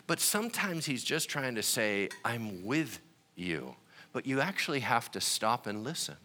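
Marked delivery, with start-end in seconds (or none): 2.2-3.7 slow, soft and lower; gentle reassurance. Acted. God quietly reassuring a struggling believer, slow and soft. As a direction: let it land gently, like a comfort.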